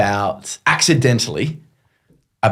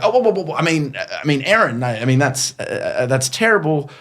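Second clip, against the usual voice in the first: motor mouthing; 4 semitones higher, faster than usual. Retold or imitated. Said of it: "I start motor mouthing".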